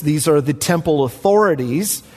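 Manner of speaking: authorities leaned on a little harder; preacher underlining authorities; stress on authorities. Shown as a demonstration. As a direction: press the word authorities to make the point. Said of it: "I emphasize the word authorities".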